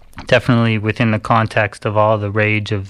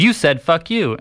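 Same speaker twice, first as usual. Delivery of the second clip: imitated British attacker; 7 semitones higher than usual. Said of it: "This is a very large white British man".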